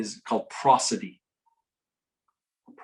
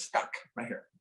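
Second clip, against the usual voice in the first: imitating the girl; 9 dB quieter than usual. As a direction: whisper it like the scared girl.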